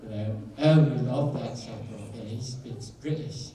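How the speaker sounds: lightly put-on British accent; chatty mock-British admirer. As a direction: slip into a casual British accent. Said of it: "a British accent".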